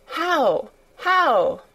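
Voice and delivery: eager cry. Acted. A girl presses the old gardener about the roses, eager cry. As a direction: pitch it up like a child bursting to know. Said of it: "cried Mary".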